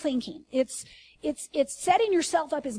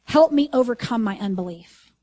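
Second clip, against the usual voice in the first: louder read; 3 semitones lower, 4 dB louder than usual. Retold or imitated. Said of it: "in the voice, here's what it says".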